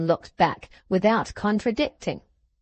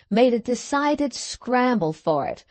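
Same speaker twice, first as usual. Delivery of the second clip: ordinary delivery, nothing marked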